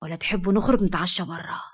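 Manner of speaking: sly. Acted. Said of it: "ابتسم بخبث وكمل".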